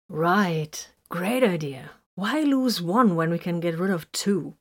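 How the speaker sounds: dry, mock-approving sarcasm; a touch of sarcasm, drawn-out "Right"; lightly sarcastic quip to the twins. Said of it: "Vox commented sarcastically".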